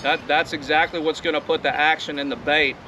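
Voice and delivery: talking over wind noise; recorded outside in wind; windy outdoors. Real, not acted. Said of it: "it's awfully windy out here".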